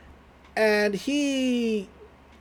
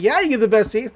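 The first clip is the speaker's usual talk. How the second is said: laughing through the line, a touch higher and louder; nervous laugh; 4 semitones higher, 3 dB louder, faster than usual. Acted. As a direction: giggle awkwardly at the crush. Dipper laughing awkwardly.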